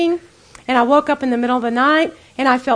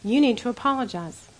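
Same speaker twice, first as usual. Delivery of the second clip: softly voiced prompting of the Spirit; quiet inner voice; 5 dB quieter than usual. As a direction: say it gently, like a nudge of conscience. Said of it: "It's very quiet".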